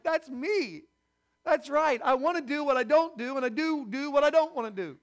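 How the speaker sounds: high, loud, insistent confession; emphatic identification. Acted. Preacher speaking for everyone who identifies with Paul, high emphatic outburst. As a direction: blurt it out high and loud in recognition.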